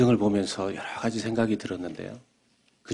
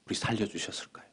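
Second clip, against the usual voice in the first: whisper; 8 dB quieter, faster than usual. Real, not acted. Whispered rhetorical question.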